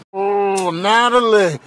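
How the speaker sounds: moaning, put-upon protest; distressed pet. Acted. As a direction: wail the name in mock distress. Cat voiced in distress.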